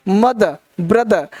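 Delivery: मदर, ब्रदर slowly, each ending "-uh"; silent final R. Shown as a demonstration. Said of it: "आर का उच्चारण हम कम ही करते हैं".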